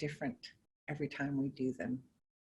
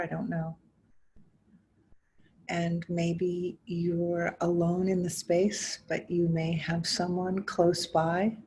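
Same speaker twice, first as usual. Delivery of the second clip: measured guiding voice with long pauses between phrases; guided meditation; 10 dB louder than usual. Acted. Teacher inviting listeners to notice body and breath, guided meditation. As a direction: invite them gently inward, phrase by phrase, leaving space. Leads a guided mindfulness exercise.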